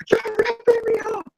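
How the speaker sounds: high, whiny accusing; high school whine. Retold or imitated. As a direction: whine it like a teenager. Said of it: "very high school teenagers".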